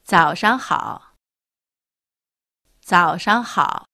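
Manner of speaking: 早上好 drawn out slowly, each syllable distinct; slow, careful 早上好 for learners; teacher slowly modelling 早上好 for the class; slow model pronunciation. Shown as a demonstration. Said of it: "もう一度練習してみましょう".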